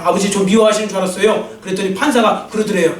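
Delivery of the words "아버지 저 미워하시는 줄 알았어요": same words, settled and relieved. Retold or imitated. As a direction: let the hurt drain out, now reassured. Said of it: "이제 안심되면서 그랬을 거예요".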